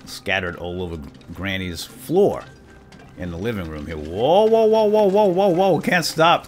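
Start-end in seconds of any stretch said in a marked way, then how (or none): 4.0-6.5 loud, high runaway whoas; playful alarm, voice shooting up; mock panic. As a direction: yell as if careening out of control. Overloaded game character careens, cannot stop.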